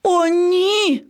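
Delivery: high, alarmed cry; startled "oh no"; dismayed gasp. A narrator's reading. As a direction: recoil in dismay. Lion cub recoils in dismay.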